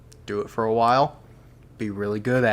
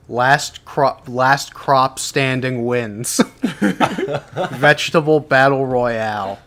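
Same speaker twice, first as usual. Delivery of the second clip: laughing; 3 semitones higher, 5 dB louder, slower than usual. Real, not acted. Laughing while pitching a game idea.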